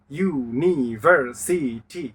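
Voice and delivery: "ইউনিভার্সিটি" slow, each syllable a separate beat. Shown as a demonstration. Teacher showing one syllable per tap, "ইউনিভার্সিটি" slowly syllable by syllable. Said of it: "প্রতিটি আঘাতেই এক একটি syllable".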